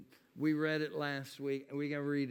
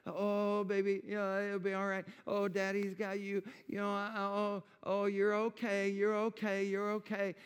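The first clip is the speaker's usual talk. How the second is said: gently soothing little daughter, a touch higher; daddy calming his crying daughter, tender; soothing a child; 5 semitones higher than usual. Retold or imitated. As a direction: hush her like a hurt child. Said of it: "saying all these things to her to try to calm her down".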